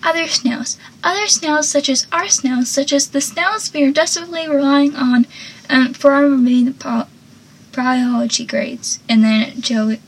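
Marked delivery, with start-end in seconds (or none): 0.0-9.0 mock panic. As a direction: act out a touch of rising alarm. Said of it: "Joey panics again while saying".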